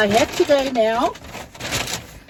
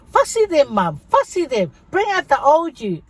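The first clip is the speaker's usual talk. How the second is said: put-on teasing kids; 6 semitones higher than usual. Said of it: "my older kids go".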